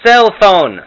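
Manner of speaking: put-on high, loud, confused old grandma; Jewish grandma Herta. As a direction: play a hard-of-hearing Jewish bubbe. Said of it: "some Morty and Herta imitations".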